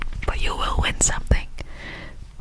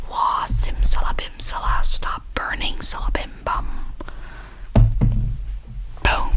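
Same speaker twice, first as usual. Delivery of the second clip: mock magician; slower than usual. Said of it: "I feel like a magician".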